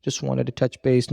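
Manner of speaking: mock-timid, asking permission to chat; lightly hammed-up needy caller; seeking approval. Shown as a demonstration. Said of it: "don't wanna sound like we're actually seeking approval".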